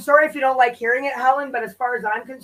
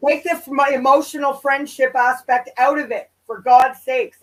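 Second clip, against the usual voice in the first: louder, fed-up demand; exasperated; 6 dB louder than usual. Real, not acted. Co-host telling Helen to drop the emotion, loudly exasperated. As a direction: push back hard, losing patience.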